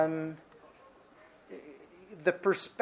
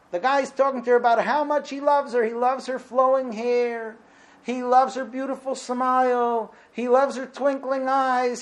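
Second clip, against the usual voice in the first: raised, mocking singsong recital; lightly mocking recital of a sappy love song; 5 semitones higher than usual. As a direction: sneer at the sappy lyrics.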